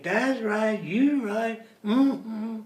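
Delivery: a hint of a poor Black speaker's dialect; imitated Black dialect. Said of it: "he will speak just like a black man".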